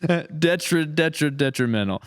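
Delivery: laughing while tripping over the word; laughing stumble. Real, not acted. Laughing at his own flub of detrimental. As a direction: giggle through the stumble.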